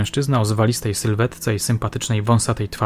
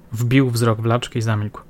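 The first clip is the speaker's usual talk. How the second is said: plain reading voice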